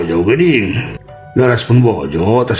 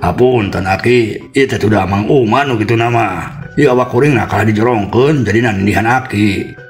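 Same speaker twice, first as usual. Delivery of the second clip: higher-pitched, apologetic excuse; pleading apology; 4 semitones higher than usual. Acted. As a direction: beg the old man's forgiveness, shifting the blame. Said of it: "sanduk-sanduk menta dihampura".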